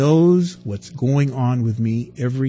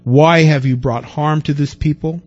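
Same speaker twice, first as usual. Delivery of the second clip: louder, indignant lament; Moses complaining; 6 dB louder than usual. Acted. Moses crying out to God in complaint, louder. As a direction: demand answers from God.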